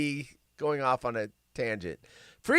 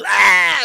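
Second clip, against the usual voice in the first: mock attack yell; 11 dB louder than usual. Mock attack on sleeping soldier.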